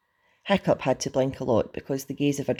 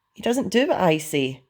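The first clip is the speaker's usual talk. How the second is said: higher-pitched plaintive excuse; helpless protest; 6 semitones higher, 4 dB louder than usual. A narrator's reading. Hiccup explains to Stoic, plaintive.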